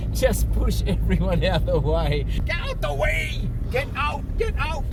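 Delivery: high playful yell clearing the crowd; mock shouting. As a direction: shout people out of the way for a laugh. Mock shoving crowd at abalone hour.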